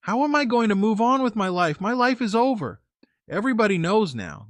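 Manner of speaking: a hammed-up wail of despair; ex-girlfriend wailing that her life is over; retold screaming. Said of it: "Emily started screaming at the top of her lungs".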